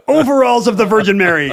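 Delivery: laughing mock swear. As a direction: fake Quebec curse, cracking up. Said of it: "their weird religious swears".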